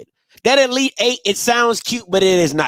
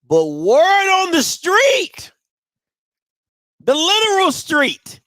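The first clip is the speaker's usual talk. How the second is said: high, slow juicy gossip voice; nosy small town gossip; 5 semitones higher, slower than usual. Pretend. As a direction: spill the tea like a nosy neighbor. Spilling gossip, far, slow.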